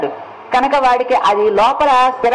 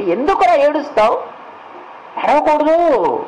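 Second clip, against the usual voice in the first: mock consoling; 5 semitones higher than usual. Asking a weeping man why he cries, mock-consoling. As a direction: coax someone out of crying, in a lightly put-on voice.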